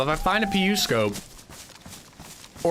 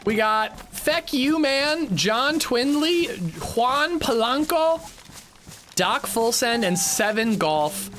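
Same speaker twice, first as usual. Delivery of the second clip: higher, hyped-up shout-out; excited thanks; 6 semitones higher than usual. Real, not acted. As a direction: rattle off names with excitement. Excited gift shout-outs continue.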